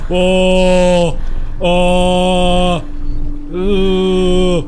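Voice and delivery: startled. Real, not acted. Startled by scary ride.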